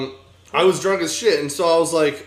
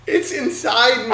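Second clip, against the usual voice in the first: higher, breathy-free girl imitation; 8 semitones higher than usual. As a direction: quote her in a higher voice. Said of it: "And she goes".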